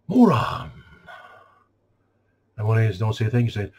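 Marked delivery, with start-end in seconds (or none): 0.1-0.7 loud, high-pitched mocking jab; sarcastic George Carlin. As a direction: throw the insult out, pitch jumping up and falling. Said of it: "I should talk like him".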